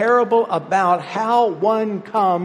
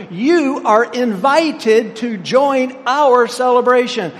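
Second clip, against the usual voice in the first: rising into a higher, louder call; father's loud invitation; 6 semitones higher, 5 dB louder than usual. Retold or imitated. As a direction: call him in with open arms. Father's summons to the son.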